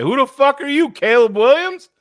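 loud, high-pitched mock British challenge; mock British accent. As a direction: shout it in a put-on British accent. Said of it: "In a British accent".

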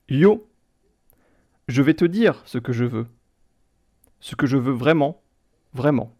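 deadpan reading with long gaps between phrases; monotone lyric reading. Pretend. Quizmaster reads translated song for players to guess, monotone. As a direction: recite song lyrics like plain text, pausing after each line. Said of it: "vous les lire de manière un peu monotone".

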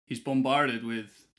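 slow, drawn-out American trailer delivery. Pretend. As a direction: stretch out "bombarded" like a movie trailer in an American accent. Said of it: "I don't know why I've gone American".

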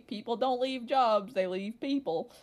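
a touch of parental Southern twang; slow, lightly put-on Southern accent. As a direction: quote the parents with a Southern lilt. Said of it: "When did your parents become Southern?".

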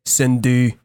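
Cindy said slow in a Quebec French accent; Cindy with flat Quebecois vowels. Shown as a demonstration. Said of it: "weird robot man voice".

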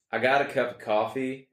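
rough attempt at a southern accent. Shown as a demonstration. Bad attempt for a guessing game, southern accent. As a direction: try a southern accent, not too convincingly. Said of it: "kind of a southern accent".

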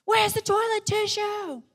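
put-on high-pitched kid hollering from another room; child calling out. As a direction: imitate a child's insistent far-off complaint. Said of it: "she's shouting at me from the C R".

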